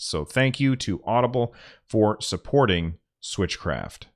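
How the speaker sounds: upbeat podcast ad read; sponsor read. Acted. Podcaster reading the Audible sponsor spot, upbeat. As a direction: sell it like a host reading an ad. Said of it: "now I'm gonna do the sponsor read".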